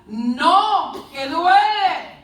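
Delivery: slow, rising mock wail; acted cry of pain. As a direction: complain of pain as the little cup. Cup protesting in pain.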